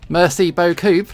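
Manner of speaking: "Merci beaucoup" in a London accent; London-accented French. Shown as a demonstration. Thanking French viewer, London-accented French. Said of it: "with a London accent".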